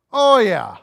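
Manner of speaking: punchy mock confession, oh pushed up; emphatic agreement. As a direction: lean into it like the whole room agrees. Answers own question twice.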